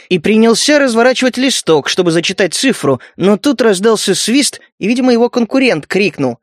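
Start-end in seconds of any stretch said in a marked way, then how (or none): none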